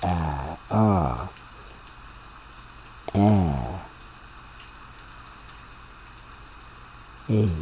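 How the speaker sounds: "a, ah, a, a" as separate vowels, short, open, then long; letter sounds demonstrated. Shown as a demonstration. Teacher showing sounds possible from letter A, isolated vowels. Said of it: "the sounds that are possible from the letter A".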